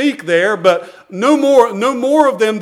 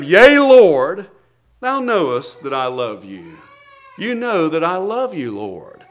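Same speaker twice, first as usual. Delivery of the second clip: tearful plea; 5 semitones lower than usual. Acted. Peter answering Jesus with a catch in his voice. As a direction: voice dropping and breaking as Peter pleads.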